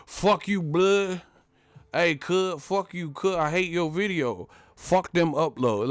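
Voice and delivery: put-on gangster trash talk; mock gangster heckling. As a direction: imitate a hater picking a fight. Mimics online gangsters heckling him.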